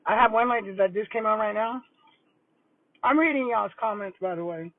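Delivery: talking while chewing; words round a bite of food; mouth full. Real, not acted. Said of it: "try not to talk with food in my mouth".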